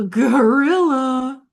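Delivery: gorilla slow, high and loud; a sing-song take of gorilla; drawn-out gorilla. Shown as a demonstration. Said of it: "you can split the difference".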